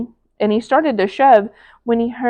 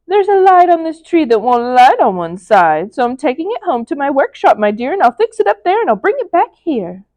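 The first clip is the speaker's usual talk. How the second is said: louder, sugary fake-kind Grinch; lying Grinch; 4 semitones higher, 4 dB louder than usual. The Grinch lying sweetly to little Cindy Lou. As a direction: sweet-talk the child to cover the lie. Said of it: "the fake Grinchy Claus lied".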